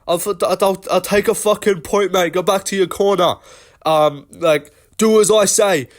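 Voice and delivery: hammed-up bossy ref ordering a fighter back to his corner; Mark Goddard yelling. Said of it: "he was just screaming, he's like".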